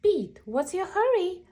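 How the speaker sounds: high questioning call; Grumpy Toad asking. Acted. Toad calls to hurrying Pete, high voice. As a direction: ask Pete why he rushes.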